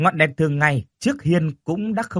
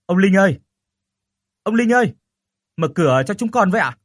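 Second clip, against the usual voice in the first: loud, high call into the dark house; 7 semitones higher, 5 dB louder than usual. Acted. Nephew calling out to the dark house, loud and high. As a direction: shout the old man's name toward the door. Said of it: "anh bạo dạn kêu lên".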